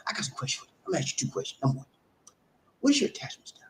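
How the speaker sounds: whispered, leaning in with the questions; mock secretive whisper. Coach asking secret question, whispering.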